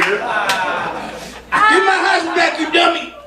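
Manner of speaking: put-on slow, drawn-out old-man yell; Sanford voice. Comic retrying the Sanford bit, slow yell. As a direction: stretch it out and holler. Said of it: "It worked last week".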